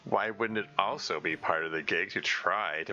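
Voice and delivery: put-on suspicious tough girl. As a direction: grill him like you don't buy it. Natsuki distrusts the monster.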